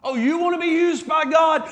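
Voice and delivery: taunting devil. Retold or imitated. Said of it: "And he's roaring".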